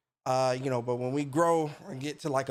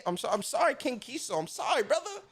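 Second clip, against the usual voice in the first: laughing apology; 9 semitones higher than usual. Real, not acted. Apologizing for mispronouncing name.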